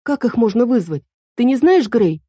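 put-on high, indignant young girl correcting him; girl Эль voice. A narrator's reading. Эль jumps in to correct Марко, high and indignant. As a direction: pitch it up as the fussy girl fairy. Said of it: "спросила Эль".

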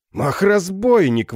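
slow, loud, high exclamation; exclaiming. A narrator's reading. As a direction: cry it out, drawn out. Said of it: "воскликнул король".

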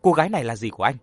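furious wife's demand; angry demand. Acted. Vợ chất vấn chồng giận dữ. (giận dữ chất vấn)

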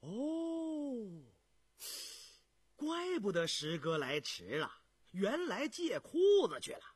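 lightly voiced realization; sudden realization. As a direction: feign realizing, then needle him. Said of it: "胤祥恍然说道".

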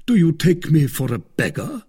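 offended pride, looking down on her; haughtily. Acted.

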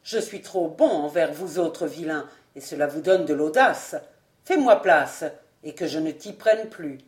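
a master putting a peasant back in his place; stern order. Acted. Old lord orders the albino out of his way, stern and low. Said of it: "prononcé d'un ton sévère".

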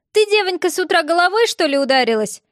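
high, loud wailing granny; wailing old woman. A narrator's reading. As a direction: lament it like a fussing old woman. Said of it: "запричитала бабуська".

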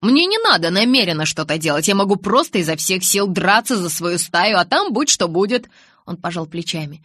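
a hint of defiant Jacob; young man voice. Jacob explains his plan.

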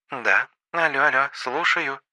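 put-on a gentle, girlish lady on the phone; lady's voice. A narrator's reading. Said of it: "нежный голосок". (нежный женский голосок)

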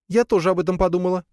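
put-on high spider girl, quick; squeaky quick agreement; high, fast spider voice. Spider replies. (быстрым высоким голоском)

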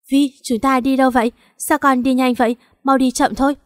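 panicked mother in a speeding car; alarmed mother. Acted.

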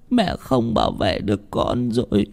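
put-on whispered grief to her child; mother apologising to her daughter, tearful and soft; soft tearful regret. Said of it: "khóc đẫm lệ".

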